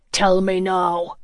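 slow, words forced through clenched teeth. Acted. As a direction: grit your teeth and push it out slowly. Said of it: "he said through clenched teeth".

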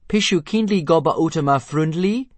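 high, loud dragon-language request; shrill, loud question in dragon-talk; shrill Dragonese. A narrator's reading. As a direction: squawk it out in Dragonese. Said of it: "punctuated by shrill shrieks and popping noises".

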